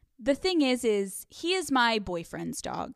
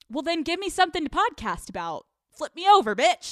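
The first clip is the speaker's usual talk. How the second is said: higher-pitched sassy comeback; sassy retort; 6 semitones higher, 5 dB louder than usual. Retold or imitated. Girlfriend retorting to boyfriend in a fight, sassy. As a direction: fire back a cheeky demand.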